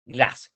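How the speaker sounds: "glass" short, on an open A; a quick, compact "glass"; short and concise. Shown as a demonstration. Teacher modelling the short vowel, "glass" short and concise. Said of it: "corto y conciso".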